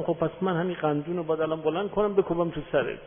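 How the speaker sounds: mock threat said in jest; light-hearted fake threat to a client; jokingly. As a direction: tease him with a playful threat. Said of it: "با خنده گفتم".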